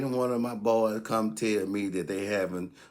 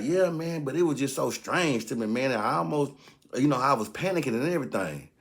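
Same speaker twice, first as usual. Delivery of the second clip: higher, fretful voice for coworker Joe; high anxious Joe voice; 4 semitones higher than usual. Retold or imitated. Coworker Joe to narrator, a higher worried voice. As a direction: play Joe, worked up about his son.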